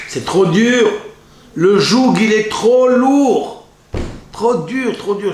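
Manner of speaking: high, loud groaning complaint; complaining husband. Acted. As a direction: moan it out like a fed-up husband, slow on lourd. Husband complaining about his wife.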